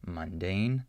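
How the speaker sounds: "Mundane" with a clear short U in MUN. Shown as a demonstration. Teacher contrasts it with schwa, full short U in "Mundane". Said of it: "faster and shorter than the short U".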